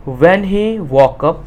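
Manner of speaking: slow, word-by-word reading; slow reading aloud. Shown as a demonstration. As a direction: dictate it to the class. Teacher reads textbook line. (धीरे-धीरे पढ़ना)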